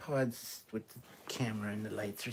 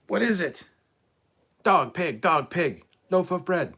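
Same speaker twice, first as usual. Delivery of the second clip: silly high voice; 8 semitones higher, 9 dB louder, slower than usual. Pretend. Joking about a pug loaf.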